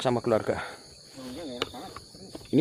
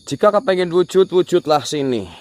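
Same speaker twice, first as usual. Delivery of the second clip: raised challenge to a spirit; commanding summons; 5 semitones higher than usual. Real, not acted. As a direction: dare it to appear. (menantang dengan lantang)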